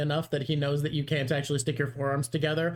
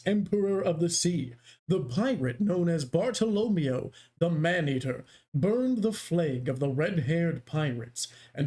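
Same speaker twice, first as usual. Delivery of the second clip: narrator voice. Shown as a demonstration. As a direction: set the scene like an anime narrator. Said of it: "let me do narrator voice".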